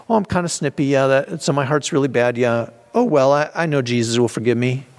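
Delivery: breezy, careless shrug of a confession; too flippant. Retold or imitated. Believer shrugging off his snippiness, flippant. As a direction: toss off the sin like it's nothing. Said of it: "Kind of too flippant".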